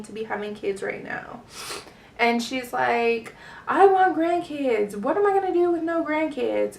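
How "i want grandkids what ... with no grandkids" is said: lamenting mom. Retold or imitated. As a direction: mimic a mother wailing for grandchildren. Mom laments lack of grandkids.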